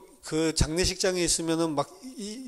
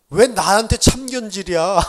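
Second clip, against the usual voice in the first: louder, wounded parent's mock outrage; mock indignant parent; 4 semitones higher, 8 dB louder than usual. Parent scolding the child who says don't interfere, in mock outrage. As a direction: play the hurt parent snapping back, loud but hammed-up.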